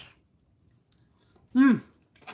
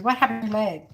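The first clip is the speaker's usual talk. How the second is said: raised-pitch Asian accent impression; imitated Asian accent; 4 semitones higher, faster than usual. Server questioning an injured customer, imitated Asian accent. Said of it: "She had the accent".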